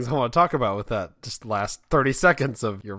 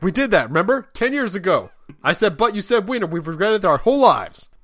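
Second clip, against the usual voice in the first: hammed-up, raised-pitch anguished dad; regretful father; 6 semitones higher, 5 dB louder than usual. Father at party recalling old joke theft, mock anguish. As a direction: plead it like a mock-tragic confession. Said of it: "a father that was at the party".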